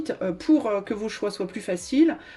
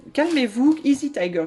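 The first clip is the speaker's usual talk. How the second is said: raised, higher call for calm; loud rising calmez-vous; 4 semitones higher, 5 dB louder than usual. Acted. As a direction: rise over the crowd to settle them. Calming an excited crowd.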